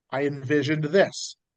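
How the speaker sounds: ordinary talk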